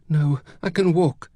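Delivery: high, irritated insistence; snapping. A narrator's reading. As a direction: snap it, refusing help. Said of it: "she snapped".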